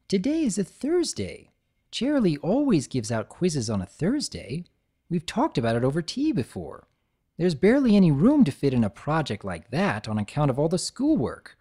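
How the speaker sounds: high know-it-all explanation; lightly voiced unicorn; Twilight voice. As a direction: bookish unicorn reasoning.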